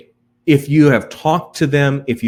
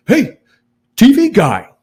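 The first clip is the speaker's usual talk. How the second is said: higher, louder mock yell to a stranger; imitando grito; 9 semitones higher, 4 dB louder than usual. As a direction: call out like someone who spots a TV face. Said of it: "they would just yell out something like".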